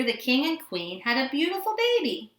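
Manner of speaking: ordinary delivery, nothing marked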